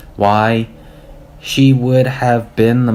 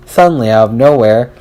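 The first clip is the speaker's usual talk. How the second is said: plain reading voice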